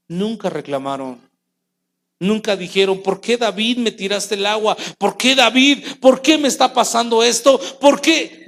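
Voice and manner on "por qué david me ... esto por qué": hammed-up whiny protest, rising; mock the grumbler, pleading louder; a pretend soldier whining at David; complaining.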